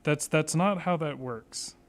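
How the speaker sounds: slow, drawn-out disbelief; exasperated. Real, not acted. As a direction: spell it out slowly in exasperation. Exasperated at bad puzzle logic.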